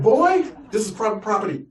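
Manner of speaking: hammed-up redneck gun owner; gruff rancher. Rancher warning the nephew off his land, mock gruff.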